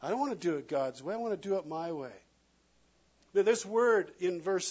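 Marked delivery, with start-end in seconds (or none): 0.0-2.1 quick plain restatement. Retold or imitated. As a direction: toss the line off quickly. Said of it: "another way to express the word sin".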